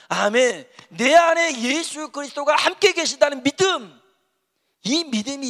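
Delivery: loud, high, impassioned preaching; forceful, ringing sermon delivery; full-force preaching. Real, not acted. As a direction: proclaim it to the congregation at full voice.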